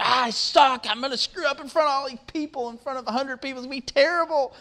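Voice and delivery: high-pitched whiny panic, imitating his young son; freaking out. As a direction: mimic a kid melting down over a speech. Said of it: "He starts freaking out".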